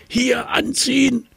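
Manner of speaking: very high squeaky mouse. A narrator's reading. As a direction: squeak the order like a tiny mouse. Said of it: "fiepte die Maus".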